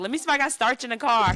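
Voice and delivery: quick, lightly voiced mother; a hint of a busy mom. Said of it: "She'd be like".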